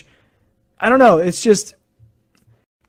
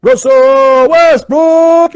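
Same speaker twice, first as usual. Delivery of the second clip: slow, long, much louder and higher shout; drawn-out announcer call of the name; announcer freaking out; 8 semitones higher, 8 dB louder, much slower than usual. Retold or imitated. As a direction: stretch the name out like an arena announcer. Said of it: "the announcer for Denver is freaking out".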